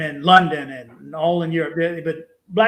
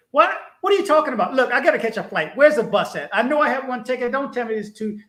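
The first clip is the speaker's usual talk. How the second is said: retold attitude; 4 semitones higher than usual. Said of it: "And I caught serious attitude".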